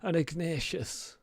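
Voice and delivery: high, put-on silly voice; bad fake voice. GM voicing Aldred's bad fake voice to the guard. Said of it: "in some really bad fake voice".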